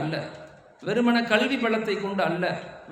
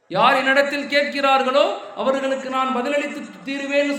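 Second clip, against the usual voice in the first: கேட்கிறார்களோ pushed out louder with a rising end; louder emphatic repeat; 3 semitones higher than usual. Shown as a demonstration. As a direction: preach it out, hammering the promise home. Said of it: "repeated with force".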